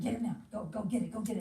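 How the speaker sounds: mock nagging compulsion; insistent urging. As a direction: hammer at him to go now. Retold compulsion chanting.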